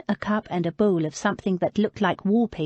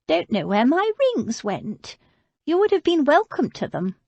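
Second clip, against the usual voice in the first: put-on higher, querulous old woman's voice; old lady; 9 semitones higher than usual. Old lady refusing food, voiced higher. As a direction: play her as a frail but stubborn old lady.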